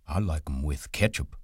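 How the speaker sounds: patient. A narrator's reading. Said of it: "He said patiently".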